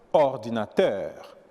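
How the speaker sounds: slow "ordinateur", last syllable stressed; accent sur la dernière syllabe. Shown as a demonstration. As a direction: draw out the end of "ordinateur". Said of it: "l'accent tombe à la dernière syllabe". (« ordinateur » lent, accentué sur la finale)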